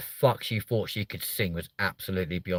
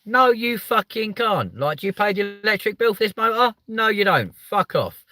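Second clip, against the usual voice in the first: hammed-up furious driver; mock angry retort; 11 semitones higher than usual. Ranting at needy passengers.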